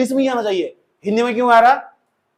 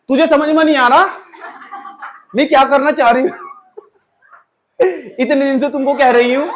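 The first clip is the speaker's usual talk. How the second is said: higher, louder, through laughter; laughing girl's voice; 5 semitones higher, 4 dB louder than usual. Retold or imitated. Retelling the girl who scolded the boy in class, laughing. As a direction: giggle it out as the teased girl. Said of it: "class eight friend story".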